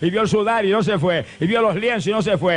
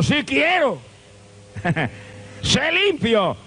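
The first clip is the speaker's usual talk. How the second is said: a lightly raised, firm Jesus; Jesus speaks; 5 semitones higher, much slower than usual. Acted. Jesus answers the kneeling leper, lightly voiced and firm.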